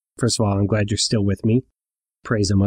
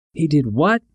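yelled; 5 semitones higher than usual. Retold or imitated. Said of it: "the old man yelled".

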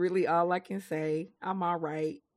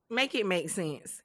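laughing plea; 4 dB quieter than usual. Real, not acted.

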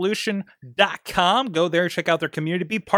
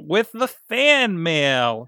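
very slow, drawn-out "fan mail"; slow announcer intro of the fan mail; segment announcement; much slower than usual. Acted. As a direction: stretch each word like announcing a segment.

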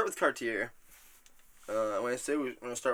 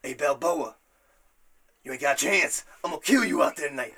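Clubber Lang threat; 4 dB louder than usual. Retold or imitated. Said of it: "Clubber Lang's like".

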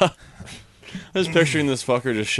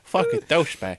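higher put-on Boston voice; hammed-up Boston local, pitched up; mock Boston accent; 5 semitones higher than usual. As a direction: jeer in a joke Boston accent. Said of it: "You sound like a Boston person".

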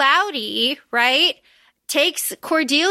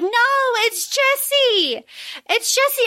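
desperate plea; 10 semitones higher, slower than usual. Retold or imitated. Lucy quoted pleading.

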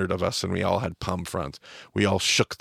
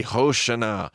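slow, fervent chanted plea; worked-up crowd; 2 semitones higher, slower than usual. Retold or imitated. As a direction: build it like a crowd in a frenzy. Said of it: "getting worked up into a frenzy".

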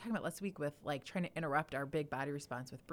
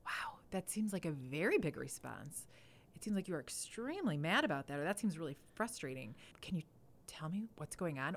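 calm reflecting. Shown as a demonstration. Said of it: "I try instead to".

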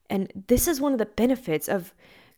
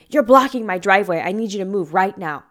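a mildly mean, curt demand; imitating a rude neighbour, mock stern; 4 dB louder than usual. Neighbour demanding tow truck driver move, mock mean. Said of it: "in a mean way".

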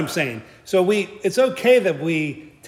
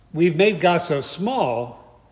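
slow emphasis; much slower than usual. Real, not acted. Slow emphatic preaching line.

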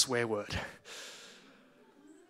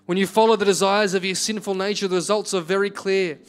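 steady, earnest reading of a Bible passage; scripture reading. Acted. Pastor reads Galatians to his congregation, earnest scripture reading. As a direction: read the verses to the church with conviction.

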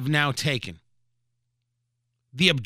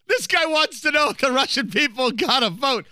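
higher, laughing mock Russian official voice; 8 semitones higher than usual. Host mocking a Russian official amused by the vote question, laughing. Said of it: "I assume that's how Russians laugh".

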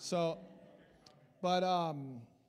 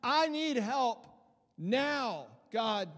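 louder, slow plea for help; desperate cry; 4 dB louder, slower than usual. Retold or imitated. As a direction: beg God for help out loud. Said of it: "a shout of saying".

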